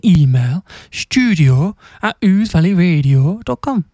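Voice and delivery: put-on playful Welsh accent. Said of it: "That was my Welsh accent".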